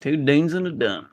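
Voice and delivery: southern twang. Shown as a demonstration. Friend echoing the joke in a mild southern twang. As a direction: try it with a touch of southern twang. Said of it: "like, a southern twang".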